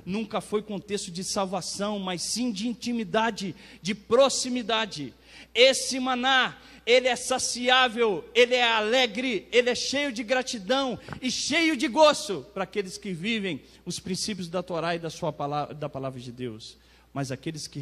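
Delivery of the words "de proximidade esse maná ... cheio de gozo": loud, raised, emphatic sermon voice; impassioned preaching. Real, not acted. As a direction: proclaim each quality of the manna forcefully. Preaches with rising force. (pregação enfática e fervorosa)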